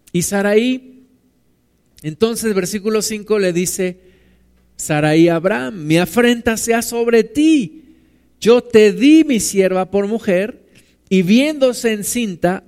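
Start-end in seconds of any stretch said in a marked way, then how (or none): 5.9-12.6 aggrieved complaint. Acted. Sarai complaining to Abraham.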